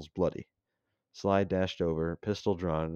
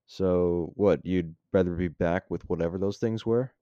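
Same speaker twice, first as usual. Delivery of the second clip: angry; 7 dB louder than usual. Acted. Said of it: "Sly turned to him angrily".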